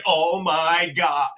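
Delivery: high, slow, gasping mock shock; overacting shocked friend. Mimicking a friend shocked by a bug, high and slow. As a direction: camp up a shocked gasp at a bug. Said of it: "It's like they overact".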